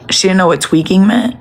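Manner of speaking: rising on "meant" in disbelief; incredulous question. Real, not acted. To the viewers, repeating the news, incredulous rise on "meant".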